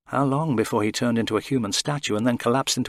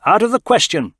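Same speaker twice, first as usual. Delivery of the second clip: clipped refusal, voiced higher; terse; 11 semitones higher, 8 dB louder than usual. A narrator's reading. Aurak refusing the crew, terse. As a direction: shut it down flat and short. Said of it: "Aurak responded tersely".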